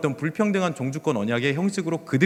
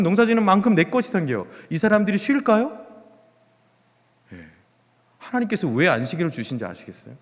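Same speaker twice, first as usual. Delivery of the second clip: ordinary talk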